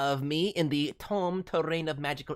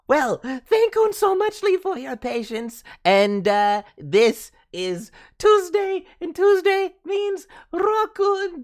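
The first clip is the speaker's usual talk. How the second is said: hyped show intro; 12 semitones higher, 7 dB louder than usual. Acted. Hyped show opening after mishap.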